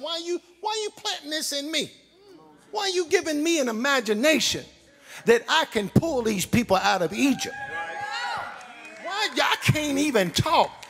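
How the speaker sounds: a stammering man begging God to pick someone else; Moses protesting. Retold or imitated. Moses protesting to God that he cannot talk, pleading shout. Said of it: "He even tells God".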